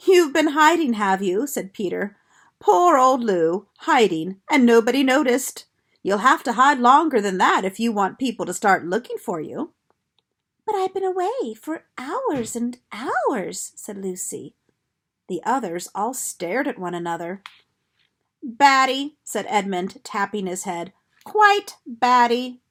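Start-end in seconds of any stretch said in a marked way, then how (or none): 0.1-9.7 a hint of a louder older boy, teasing; teasing big brother. Peter teasing Lucy for hiding. 10.6-13.7 high, slow, puzzled protest; can't believe they didn't notice; amazed. Acted. Lucy protesting in amazement to the others. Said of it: "in amazement". 18.4-22.6 louder, slow scornful jeer; mocking. Edmund mocking Lucy, tapping his head.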